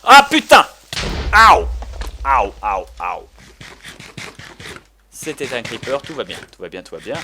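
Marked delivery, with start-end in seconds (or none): 0.0-0.6 sudden high shriek of fright; startled scream. Real, not acted. Startled by a creeper. 1.3-3.3 loud pained yelps. Real, not acted. Hurt by creeper blast.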